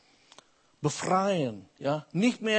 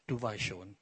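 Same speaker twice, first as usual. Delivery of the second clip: laughing; 7 semitones lower, 11 dB quieter than usual. Real, not acted. Parrot punchline with laughter.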